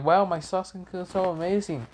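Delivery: high, mock fangirl swoon; gushing admirer. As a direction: gush over a crush in a put-on high voice. Mimics Sasuke's gushing admirer.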